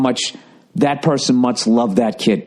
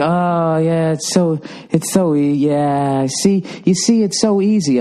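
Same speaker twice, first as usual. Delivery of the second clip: smug mother imitation; 3 semitones higher, slower than usual. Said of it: "She's go".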